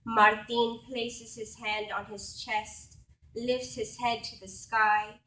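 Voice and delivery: deliberate spoken-word phrasing with weighted pauses; poetry recital. Acted. Poet honouring a farm worker for an audience, reciting.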